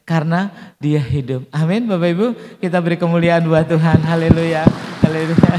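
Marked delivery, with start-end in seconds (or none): 1.6-5.6 louder, full-force call to praise; rally the room to glorify God; preaching shout. Real, not acted. Preacher calls the congregation to praise, louder.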